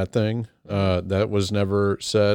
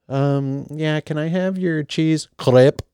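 higher-pitched fake French that slides into Russian; hammed-up, badly faked foreign accent, slow on "crepe"; botched dialect imitation; 6 semitones higher, slower than usual. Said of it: "that was like Russian".

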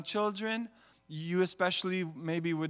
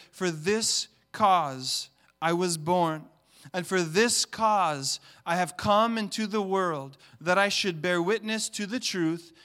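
solemn scripture reading; 5 dB louder than usual. Real, not acted. Pastor reading Jesus's words to church, solemn. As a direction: read the words of Jesus with weight.

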